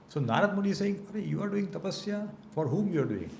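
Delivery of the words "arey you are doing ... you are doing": high-pitched, mildly astonished query; acted-out puzzlement, raised pitch; puzzled questioning. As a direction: retell a sage's baffled question, pitched up high then easing. Narad questioning Brahma's austerities in retelling.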